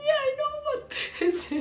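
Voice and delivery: high-pitched squeaky words through real laughter; laughing. Real, not acted. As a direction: fight to talk while laughing hard. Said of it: "I was laughing so much".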